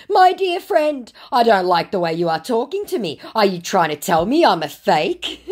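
a wounded, wheedling scammer; mock scammer voice. Scammer Eric's chat read out.

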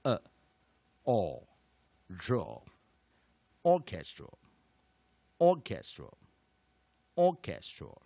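slow, separated "a, o, ro", then "orchestral"; firm, slow model reading of "orchestral"; sounding out syllables. Shown as a demonstration. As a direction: build "orchestral" from isolated sounds, long gaps between. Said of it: "直接在A的地方补上弱母音".

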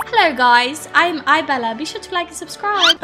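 light mock-British vlogger greeting; fake British accent. Shown as a demonstration. YouTuber greeting viewers, fake British accent. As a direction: put on a slight, badly faked British accent. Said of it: "I could do a fake British accent".

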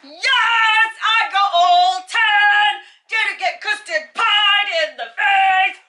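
high, loud victory cheer; triumphant shout. Real, not acted. Celebrating win, shouting.

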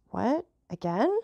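a touch of hurt in a questioning exclamation; plaintive. A narrator's reading. Countess to the Count after he refused again, mildly plaintive. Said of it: "exclaimed in so plaintive an accent".

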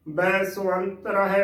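ਬੈ ਸੁਵੰਤ ਰਹਿ with ਵ as a u glide, "bai-suant-rahe"; ਬੈ ਸੁਵੰਤ ਰਹਿ spoken in careful parts; shown pronunciation. Shown as a demonstration. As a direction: say the ਵ in ਸੁਵੰਤ as a short u. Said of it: "ਦੇ ਵਿੱਚ ਉਚਾਰਨ ਹੋਵੇਗਾ".

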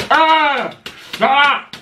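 high, loud yelps of burning pain; yelping with a mouth on fire; pained cry. Real, not acted. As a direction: cry out as the spice hits. Mouth burning from spicy food.

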